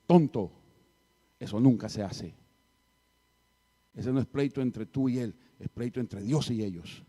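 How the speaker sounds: loud, emphatic rebuke; scolding teacher. Retold or imitated. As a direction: scold the student loudly, landing hard on the first word. (regaño fuerte de maestro)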